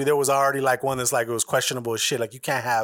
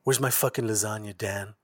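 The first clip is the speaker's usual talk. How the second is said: lightly voiced Garfield; 2 semitones lower, 4 dB quieter than usual. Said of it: "He was like".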